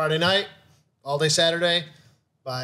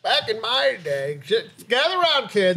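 put-on old grandpa storyteller; 4 semitones higher than usual. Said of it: "Grandpa's gonna tell a story".

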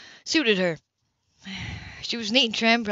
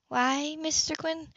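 slow attentive question; 7 semitones higher, 6 dB quieter, slower than usual. A narrator's reading. Vice principal's attentive question.

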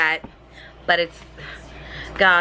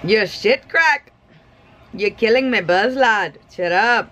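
bad Irish accent; 4 semitones higher than usual. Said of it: "I cannot do accents to save me life".

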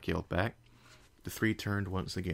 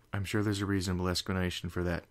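shuddering; faster than usual. Acted. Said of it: "Twilight shuddered".

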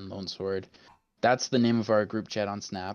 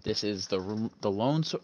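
radio host voice. Acted. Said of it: "the radio host voice".

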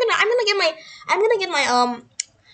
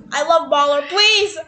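raised, insistent mock pleading; hammed-up yelling; 3 semitones higher than usual. Gamer insisting they love Baller, hammed-up yelling.

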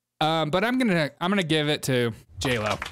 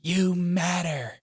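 mock heartfelt; 3 semitones higher, much slower than usual. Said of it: "How do I say this better".

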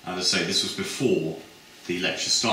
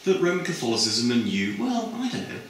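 high, hesitant and chatty; a lightly voiced girl fumbling for reasons; dreamy high sales pitch; gushing student; 9 semitones higher than usual. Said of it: "And her friend said".

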